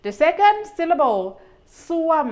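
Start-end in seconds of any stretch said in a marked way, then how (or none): 1.9-2.3 ส้วม starting high and falling. Shown as a demonstration. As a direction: let the pitch drop through ส้วม. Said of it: "is a falling tone".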